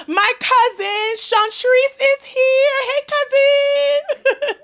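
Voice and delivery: high, loud, gushing introduction with laughter; excited intro. Real, not acted. Host hyping her cousin to listeners, high excited laughing. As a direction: hype up your cousin with delighted squeals.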